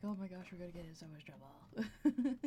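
whispered mock panic; hushed, fretting imitation; imitating the parents. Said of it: "they're probably like".

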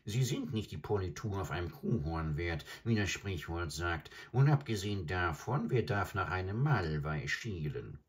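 high, croaking bird voice; a scornful old stork sneering; adjutant bird. Acted. Adjutant bird keeps talking.

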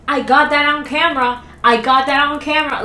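lightly voiced mock hysteria; mocking imitation. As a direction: parrot her frantic line. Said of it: "It's like the bitch in the back".

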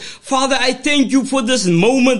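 fervent church prayer, rhythmic and pleading; praying aloud. Acted. Pastor praying over the word before preaching, fervent prayer. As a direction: pray over the congregation with steady fervour.

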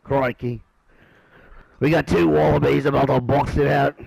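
mock Australian commentary; badly faked Australian twang; terrible Australian accent. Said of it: "That's my terrible Australian accent".

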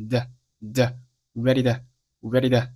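"ready的" with "to" reduced to a tapped de; light tongue tap on "的"; flapped t. Shown as a demonstration. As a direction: model "ready to" as "ready-de". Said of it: "可以做一个弹舌音处理".

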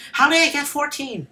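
high-pitched disbelief; incredulous. Real, not acted. Gamer baffled at his score of fourteen, incredulous.

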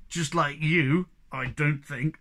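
slow mocking jeer. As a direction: tease him with a sneer. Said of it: "said Moomintroll jeeringly".

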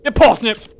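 playful shout while clubbing; gleeful yell. Acted. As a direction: bellow the punchline. Clubbing penguins.

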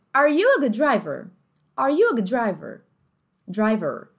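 American English, strong r in "driver"; American accent. Shown as a demonstration. Teacher voicing an American family asking a question. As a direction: hit the r in "driver" hard. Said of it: "Esse er, bem forte".

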